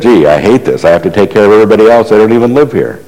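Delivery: quick, hammed-up grumble; mock complaint. Imagined convert resenting caring for everybody, mock complaint. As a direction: complain lightly in a rush.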